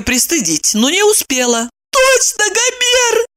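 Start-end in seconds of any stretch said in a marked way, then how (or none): 1.9-3.3 high sudden eureka cry; exclaiming. Acted. Maya suddenly remembering the name, high exclamation. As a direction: burst out remembering. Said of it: "воскликнула Майя".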